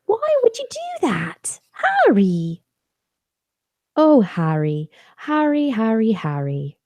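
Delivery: pleading, swooping calls of "Harry"; storybook character voice. Acted. Mother showing off her Harry Potter reading voices, put-on fretting character. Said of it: "got all these different voices".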